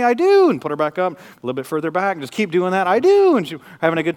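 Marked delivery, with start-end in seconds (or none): 0.0-0.5 put-on high, loud toddler voice stretching the O; little girl's eager reply. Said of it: "that exact way every time". 2.9-3.4 put-on high, loud toddler voice stretching the O; little girl's eager reply. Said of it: "that exact way every time".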